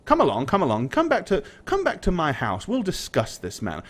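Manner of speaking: lightly voiced lord, swooping pitch; lord hurrying guests. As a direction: usher them along, brushing the matter aside.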